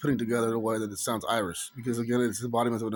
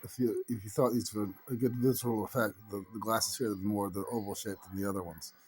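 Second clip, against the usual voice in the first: put-on Irish accent. Showing viewers a practised Irish dialect, put-on Irish accent. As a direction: speak in an affected Irish dialect. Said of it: "speak in a little bit better dialect so you can tell it's Irish".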